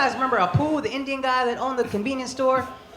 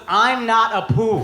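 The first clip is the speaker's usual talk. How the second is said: put-on Indian accent parents; 4 dB louder, slower than usual. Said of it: "offended my parents about a poo was".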